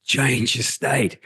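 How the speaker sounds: lightly imitated self-help guru, drawn out; Tony Robbins mantra. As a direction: chant it slowly like a hyped-up life coach. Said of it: "You heard Tony Robbins say".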